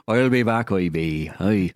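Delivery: "I'll be back" as a hokey Austrian farmer, lightly done; farmer Terminator. Retold or imitated. Joking that the Terminator returns to water the potatoes. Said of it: "To water the potatoes".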